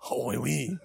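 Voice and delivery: mock French interjection; bad French accent. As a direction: put on a clumsy French accent. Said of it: "Why is my French".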